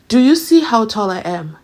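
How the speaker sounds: mock courtroom swagger; bolder repeat. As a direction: press the question harder.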